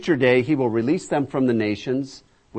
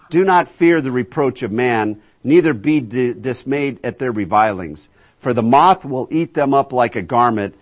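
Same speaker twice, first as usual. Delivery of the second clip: scripture proclamation; 6 dB louder than usual. Acted. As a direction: proclaim it as God calling his people. Reads scripture aloud.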